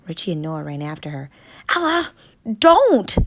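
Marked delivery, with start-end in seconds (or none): 1.8-3.2 high, loud warning cry. Acted. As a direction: call out to stop her. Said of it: "Richie warned again".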